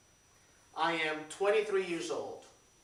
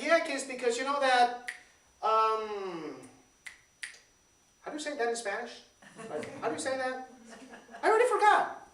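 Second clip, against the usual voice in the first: fumbling dad; 3 semitones higher than usual. Retold or imitated. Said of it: "he goes like".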